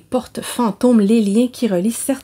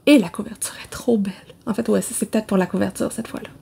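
half-whispered aside, softer; hushed confession; 5 dB quieter, faster than usual. Real, not acted. Book vlogger confessing a pretty cover won her over, hushed. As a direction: confide it under your breath.

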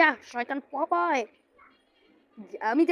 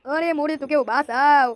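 slow, louder drawn-out plea for help; slow cry for help; 5 dB louder, slower than usual. Acted. Character being bitten, slow loud cry for help. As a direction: stretch out a desperate call for rescue.

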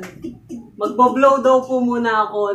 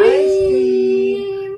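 excited shout; 10 semitones higher, 6 dB louder than usual. Real, not acted. Joyful shout of favorite food.

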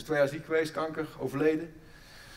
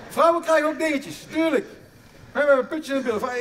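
loud emphatic retort; 7 semitones higher, 7 dB louder than usual. Real, not acted. Repeats line louder and higher.

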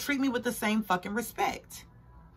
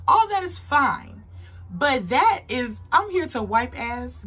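emphatic rant; 4 semitones higher, 3 dB louder, slower than usual. Real, not acted. Ranting about duties.

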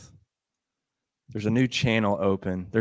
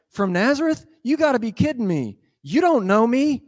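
scoffing recap; 11 semitones higher, 3 dB louder than usual. Retold or imitated. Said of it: "One minute he's like".

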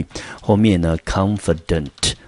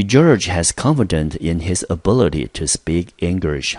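slow classroom reading. Shown as a demonstration. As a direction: speak English drawn out slowly. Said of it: "我们看例句".

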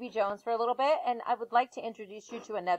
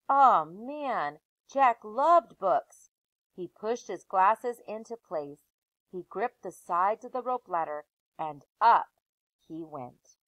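put-on lively read-aloud voice for children; story narration; 2 semitones lower than usual. Teacher reading a chapter book aloud to her class.

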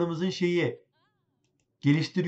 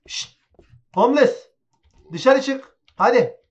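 raised, higher voice in short bursts; stern order; 4 semitones higher, 6 dB louder than usual. Real, not acted. Shopkeeper ordering a homeless man out, stern and loud. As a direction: order an intruder out loudly.

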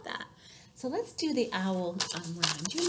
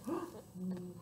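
soft little gasp of wonder; surprised gasp; 3 semitones lower, 11 dB quieter than usual. Pretend. Reader surprised by a new voice, soft gasp. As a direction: catch the breath quietly.

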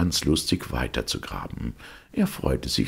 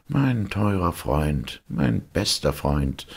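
eager call; much slower than usual. Acted. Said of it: "rief der kleine Hans".

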